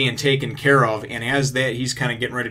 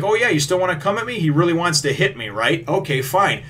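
higher, quicker taunting villain voice; 6 semitones higher than usual. Retold or imitated. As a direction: taunt him. Krieg taunting Luffy.

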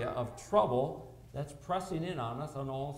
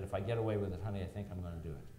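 laughing; 7 semitones lower, 4 dB quieter, much faster than usual. Retold or imitated. Quoting himself to wife, laughing.

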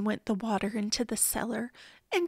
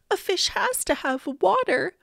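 higher-pitched urgent insistence; insistent; 7 semitones higher than usual. A narrator's reading. Boy urges policeman to save his fish, insistent. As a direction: press the point, voice lifted.

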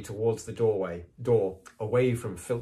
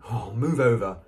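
snarling; 2 semitones higher, 7 dB louder than usual. Acted. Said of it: "Hermione snarled".

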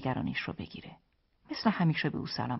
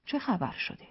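higher-pitched surprised question; 6 semitones higher than usual. A narrator's reading. Husband caught off guard by his wife, surprised. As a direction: ask with mild astonishment, starting high. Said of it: "جوانی متعجب پرسید".

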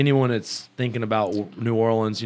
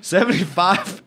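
teasing countdown; 8 semitones higher, slower than usual. Real, not acted. Teasing lower percentages.

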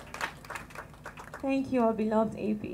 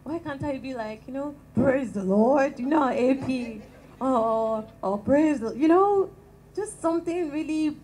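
booming preacher voice; 3 semitones higher, 7 dB louder than usual. Shown as a demonstration. Small-voiced speaker showing the voice she wished for, loud. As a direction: belt it like a fire preacher. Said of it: "Why is my voice this calm".

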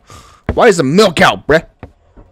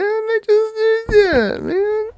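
very high, slow, elated; excited disbelief; 5 dB louder, slower than usual. Real, not acted. Gamer marvels at what he just did, excited. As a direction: marvel loudly at yourself. Still celebrating.

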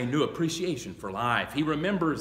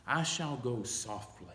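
soft echo; 7 dB quieter than usual. Shown as a demonstration. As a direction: let "softly" fall to a hush.

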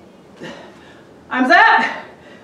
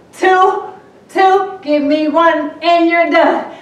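laughing. Real, not acted. Laughing through final reps.

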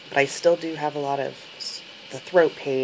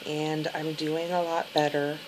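sore throat voice after surgery; speaking carefully through a sore throat; after tonsillectomy; 3 semitones higher, 5 dB quieter than usual. Real, not acted. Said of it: "day twelve after my tonsillectomy".

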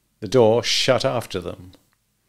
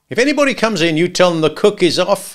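high, loud hood instructions; a hint of a menacing hitman; gangster giving orders; 8 semitones higher, 6 dB louder than usual. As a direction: tell the counterman what to say. Al instructs George.

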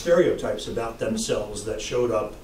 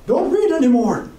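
high, louder pleading protest; 11 semitones higher, 6 dB louder than usual. Acted. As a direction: beg the priest to stop reading. Paddy protests loudly.

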